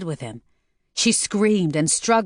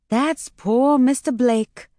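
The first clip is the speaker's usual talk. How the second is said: slow, higher, sad sniffling line; a little teary; slow, sorrowful, a touch teary; sniffing sadly; 7 semitones higher, slower than usual. Acted. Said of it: "Peggy sniffed".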